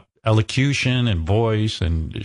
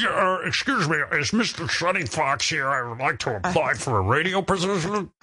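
put-on nervous kid forcing voice down; 4 semitones higher, 4 dB quieter than usual. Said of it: "high-pitch Eric trying to for-, force his voice down".

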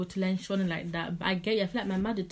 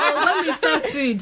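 words through laughter, louder and higher; laughing; 5 semitones higher, 6 dB louder than usual. Real, not acted. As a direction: keep laughing as you talk. Still laughing from joke.

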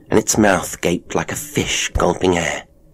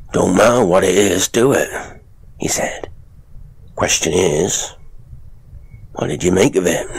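sly showman father. Acted. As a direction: lean in and taunt her. Father figure voiced.

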